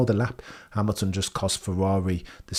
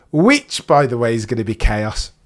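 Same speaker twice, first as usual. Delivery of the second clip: loud chaos; 6 dB louder than usual. Shown as a demonstration. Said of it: "Which is gonna be chaos".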